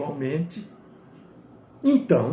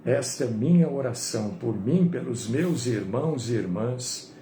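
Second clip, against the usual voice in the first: prayer; 7 semitones lower, 4 dB quieter than usual. Real, not acted. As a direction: lead the congregation in a hushed, unhurried prayer. Leads the closing prayer.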